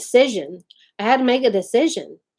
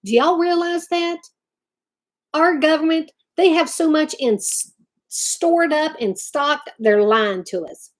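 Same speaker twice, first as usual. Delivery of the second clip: heated rant; 5 semitones higher than usual. Real, not acted. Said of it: "I'm letting it all out today".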